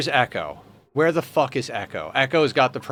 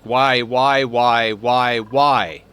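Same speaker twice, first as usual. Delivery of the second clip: exasperated whys; 4 dB louder, much slower than usual. Real, not acted. Pawn walks off wrong way.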